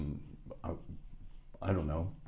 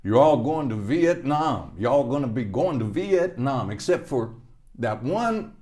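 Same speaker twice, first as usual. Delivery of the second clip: drill sergeant; 6 semitones higher, 7 dB louder than usual. Retold or imitated. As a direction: bellow the orders like a drill sergeant. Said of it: "He said".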